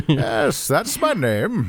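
slow Bane catchphrase. Acted. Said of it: "Bane always says that name".

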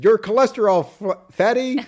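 high mock insult; Fletcher. Answering the other guy's greeting, imitated insult. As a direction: hurl it back high in comic imitation. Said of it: "that's when he says".

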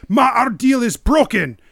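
put-on a light Scottish accent on an angry line; lightly Scottish, furious. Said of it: "He's turning a little Scottish".

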